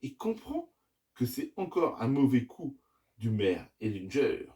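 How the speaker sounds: put-on measured children's storytelling with lively phrasing; story narration. A narrator's reading. Dad reading the adventure to his children, story narration. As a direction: tell the tale, pausing between phrases.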